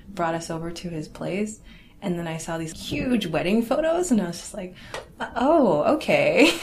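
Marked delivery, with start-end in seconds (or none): 5.2-6.5 laughing, high and loud "oh okay"; laughing surprise. Retold or imitated. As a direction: burst out laughing mid-word in shock. Seeing surprise wedding photos.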